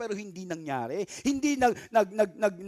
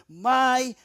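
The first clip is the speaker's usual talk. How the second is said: tender God voice; much slower than usual. Acted. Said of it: "That's why He whisper".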